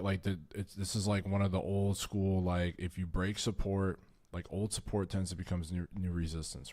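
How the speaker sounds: stuttering, repeating words. Real, not acted. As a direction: stumble and restart words while explaining. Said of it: "sorry, I've been fucking stuttering".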